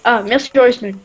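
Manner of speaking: voix de clodo qui traîne un peu; un vagabond moqueur qui remercie; rambling folksy hobo. Pretend. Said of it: "avec cette voix de, de Clodo". (voix de clodo moqueuse)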